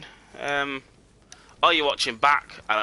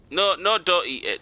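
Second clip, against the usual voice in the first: higher, urgent "no, no"; urgent protest; 6 semitones higher, 4 dB louder than usual. Real, not acted. Gamer stopping a character from eating it, urgent protest. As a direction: stop them quickly, voice jumping up.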